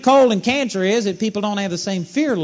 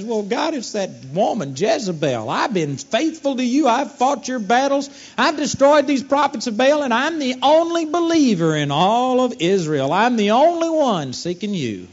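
self-righteous Elijah; 5 semitones higher than usual. Retold or imitated. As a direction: list your virtues like a wounded prophet. Elijah boasting his virtues.

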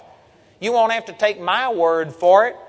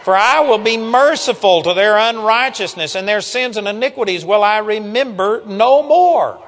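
proclaimed loudly; 4 semitones higher, 6 dB louder than usual. Shown as a demonstration. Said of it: "That sounds like the gospel".

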